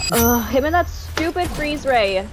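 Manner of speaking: real exasperated gamer annoyance; angry. Real, not acted. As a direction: groan in annoyance at a rival's cheap trick. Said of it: "she's getting so angry".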